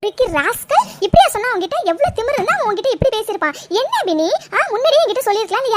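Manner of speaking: outraged on a friend's behalf, pitch swinging; indignant. Acted. Friend hears of the harassment, indignant and scolding. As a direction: burst out in indignation.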